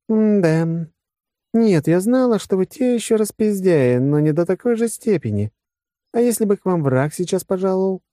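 high-pitched scolding woman officer; disapproving general. Acted. General scolds her drunken crew, disapproving.

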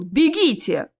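mild urgent yell. Acted. Nevil urges friends past the fallen troll, yelling. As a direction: urge them to run. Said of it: "заорал Невил".

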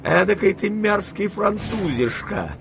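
high, slow, scolding shout; furious grandmother. A narrator's reading. Grandmother berates De Grieux after the loss, shouting high. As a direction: tear into the meddling Frenchman. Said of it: "крикнула бабушка".

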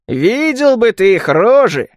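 chortling exclamation. A narrator's reading. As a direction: crow with amusement, voice lifted. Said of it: "хохотнул Мади".

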